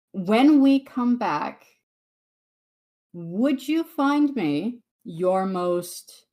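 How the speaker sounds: measured request with deliberate pauses; a hint of courtly negotiation; formal diplomatic speech. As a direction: space out each phrase like an envoy. Gabby makes a formal request.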